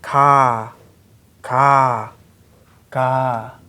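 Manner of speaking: "ka" drawn out on an open ah; syllable demonstration. Shown as a demonstration. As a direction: model "ka" slowly as a separate syllable. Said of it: "its sound value is".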